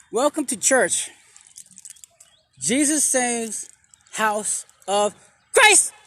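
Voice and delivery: mock preacher, drawn out and slow; slow church greeting, rising on Christ; preacher call. To viewers, a playful welcome in a slow preacher call. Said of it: "You gotta say it like that".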